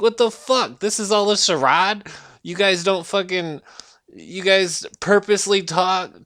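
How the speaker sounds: high, loud disbelieving outburst; incredulous. Retold or imitated. Reacting to friends suddenly talking white, loud incredulous disbelief. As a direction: act shocked at the charade.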